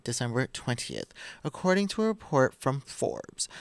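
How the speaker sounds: measured, deliberate article reading; podcast host reading the headlines; news article read-aloud. Acted.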